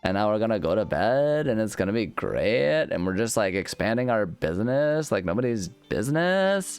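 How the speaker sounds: bubbly Valley Girl gushing, lightly put on. Streamer gushing over his crystal grotto in mock Valley Girl. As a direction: gush about the farm like a Valley Girl. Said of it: "I went full Valley Girl on that one".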